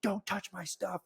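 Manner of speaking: high, drawn-out imitation of a customer; mock whiny protest. Customer to bartender packing his bag, mock protest.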